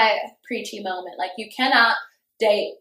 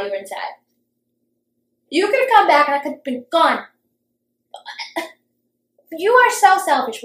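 arguing; 2 semitones higher, 3 dB louder than usual. Retold or imitated. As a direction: act out a scolding that climbs to indignation. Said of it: "we got into such a fight".

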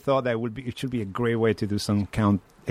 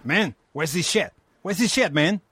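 put-on Mexican accent; 6 semitones higher than usual. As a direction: play a baffled stoner with a Mexican accent. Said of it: "Can you do a Mexican accent?".

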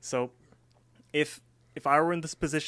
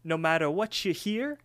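high cartoon voice, drawn out; slow, high-voiced parting warning; Promise Pie; 6 semitones higher than usual. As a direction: put on a high character voice. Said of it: "he's like".

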